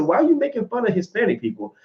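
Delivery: high-pitched mock bewilderment; retold puzzled protest. Retelling own puzzled reply in quarrel.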